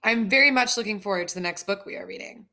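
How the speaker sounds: stiff robot voice, overly formal. Acted. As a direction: speak like a robot. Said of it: "Stop acting silly".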